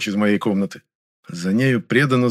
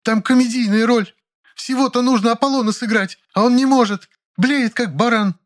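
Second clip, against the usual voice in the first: put-on high, strained older actress voice, building outrage; надрывный крик Раневской; 13 semitones higher, 3 dB louder than usual. A narrator's reading. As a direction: cry it out, wounded and theatrical. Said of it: "с надрывом вскричала Раневская". (высокий надрывный голос возмущённой актрисы)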